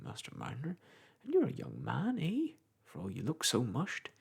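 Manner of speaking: chatty old countryman, lightly voiced; a touch of a gossiping old clerk; old village clerk. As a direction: ramble on like a garrulous old parish clerk. Macey's voice again.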